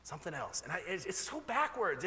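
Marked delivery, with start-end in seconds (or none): 0.0-0.6 voice of God. Retold or imitated. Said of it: "God just keeps saying".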